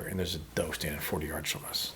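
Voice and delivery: hushed whisper. Real, not acted. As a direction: whisper so the deer won't hear. Near deer, whispering.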